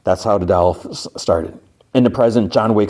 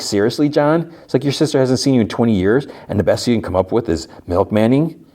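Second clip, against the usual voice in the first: higher, exasperated disbelief; mock-exasperated, pitched up; retold incredulous scolding; 5 semitones higher than usual. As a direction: act out a friend telling him off. Friend scolds him for his answer.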